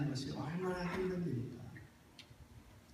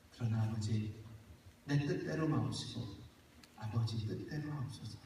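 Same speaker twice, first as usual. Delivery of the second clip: soft, low yielding prayer; Jesus quietly giving in to the Father's will; surrendered prayer; 6 semitones lower, 7 dB quieter than usual. Acted. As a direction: let go and submit quietly.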